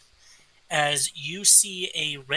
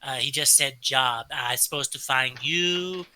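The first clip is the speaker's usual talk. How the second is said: kobold. Acted. GM plays kobold.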